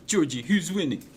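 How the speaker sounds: high, loud squeaky mouse voice; a tiny excited fan cheering; excited Georgie. Acted.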